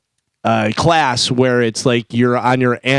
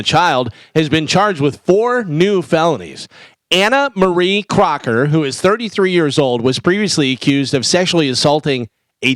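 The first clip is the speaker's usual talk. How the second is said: deliberate news-item read with punched key words; 3 semitones higher than usual. Real, not acted. Host reading a crime story to co-hosts, newsreader style.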